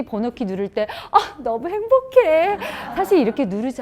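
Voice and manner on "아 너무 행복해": mock happy. Mock happy mother at door.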